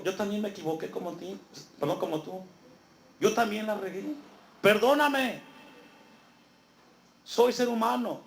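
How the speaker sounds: begging that builds to a desperate cry; pleading debtor. Acted. Fellow servant begging not to be jailed, rising plea.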